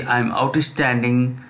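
stretched-out, deliberate repeat-after-me delivery; slow affirmation drill; slow model affirmations. Shown as a demonstration. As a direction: draw each phrase out slowly for students. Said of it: "please say".

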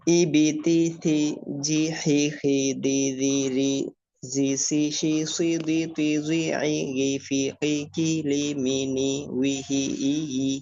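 evenly spaced, drawn-out chanted syllables; syllable drill. Shown as a demonstration. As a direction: sound out each syllable on one level tone.

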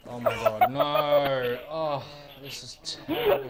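a very high, loud shriek of dismay; despairing shout. Real, not acted. Gamer shrieking as his team loses the round, high despairing shout. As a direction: shriek as the round falls apart. Match going badly.

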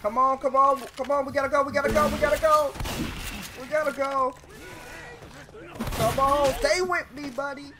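man down shout. Real, not acted. Reviving a downed teammate.

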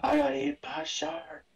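high mocking voice; Dave Chappelle impression. Retelling Chappelle's shark bit, high mock voice. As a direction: squeak it out like Chappelle. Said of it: "Dave Chappelle makes fun of it".

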